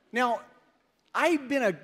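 usual speaking voice

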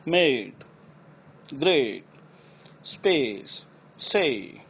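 मेड, ग्रेट with a clear ei glide; ei glide words. Shown as a demonstration. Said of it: "ये pronunciation उनकी है". (सही एई उच्चारण)

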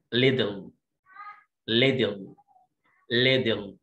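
ليدل with a flapped t, ledel; model word. Shown as a demonstration. Teacher modeling ليدل. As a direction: say ليدل with a quick d sound. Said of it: "عارفين ليه قلنا هنا دي".

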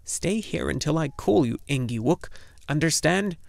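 put-on bossy old woman. Urgle ordering her husband.

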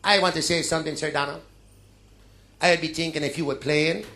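hint of a brash Caribbean quick; cocky fast bowler. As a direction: lay down a challenge to a legend. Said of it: "he goes like this".

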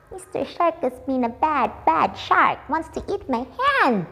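high giggling complaint about the bite; teacher giggling after the pretend bite; laughing fright. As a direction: laugh through the fake scare.

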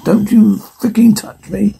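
harsh unvoiced whisper. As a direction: hiss it under your breath. Disgusted woman rejecting creepy double.

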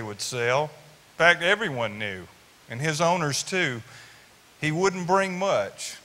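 rhythmic poem recitation; cowboy poetry. Acted.

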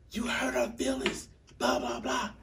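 very high, whiny imitation of crying; mock tearful protest. Crying at mom about niece's hurt feelings, mock tearful. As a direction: squeal the complaint as if in tears. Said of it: "and I was crying".

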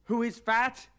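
angry shout. Acted. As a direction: bark back in anger. Angry retort at being called fat.

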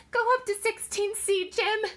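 high, loud, panicked cry; frantic scream. A narrator's reading. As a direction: scream it out in alarm, high-pitched. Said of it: "she screamed".

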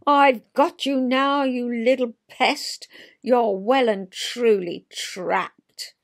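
loud gloat that slows to a drawn-out, relishing end; a hammed-up villainous gardener cornering her prey; gloating threat. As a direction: savour the triumph over the trapped mole. Jan catches the mole.

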